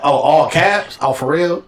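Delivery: acted-out indignant disbelief; mock affront. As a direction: react as if challenged to a fight. Acting affront at all-caps text.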